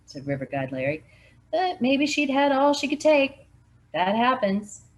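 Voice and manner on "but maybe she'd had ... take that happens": raised voice. Acted. Larry argues the mother snapped.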